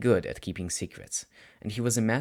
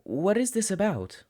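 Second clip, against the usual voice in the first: put-on much higher, worried boy's voice; anxious teen; 10 semitones higher than usual. Student asking his sensei why he's here, anxious and high. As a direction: ask it with a knot in the stomach. Nervous student asks teacher.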